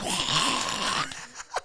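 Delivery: breathy mock crowd roar; voiceless imitation of a crowd cheering; whispered roar of an audience; imitated crowd reaction. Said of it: "everyone goes".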